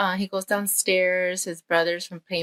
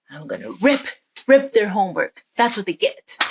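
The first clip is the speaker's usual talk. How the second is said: acted spite, punching 'rip'; vengeful boy; 3 dB louder than usual. Boy plots against brothers' homework, mildly spiteful. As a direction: vow petty revenge with relish.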